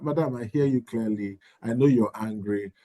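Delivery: calm, even-toned reply; neutral tone. Shown as a demonstration. School head acknowledging an angry parent, calm and neutral. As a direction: keep it level and composed. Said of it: "Just maintain a neutral".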